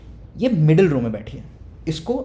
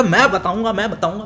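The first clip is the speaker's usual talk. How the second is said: excited; 3 semitones higher, 6 dB louder than usual. Retold or imitated. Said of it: "remote भाई सबसे excited".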